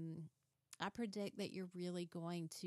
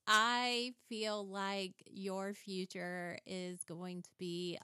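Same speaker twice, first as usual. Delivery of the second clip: slow mystical fortune teller voice; playful psychic reading for her friend, slow and mystical; mock psychic; 5 dB louder, slower than usual. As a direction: intone it like a hammed-up psychic. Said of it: "here's my psychic prediction for you".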